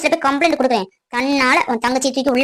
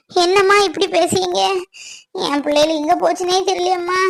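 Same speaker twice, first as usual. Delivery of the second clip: higher-pitched, aggrieved appeal; pained pleading; 4 semitones higher than usual. Acted. Woman pleading with her accuser about the missing girl, pained. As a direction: plead with a hurting heart.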